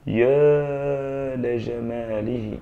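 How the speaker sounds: slow, drawn-out admiring exclamation; slow, awed exclamation; exclamation of wonder. Shown as a demonstration. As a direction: marvel at the beauty aloud. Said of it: "أين يقول".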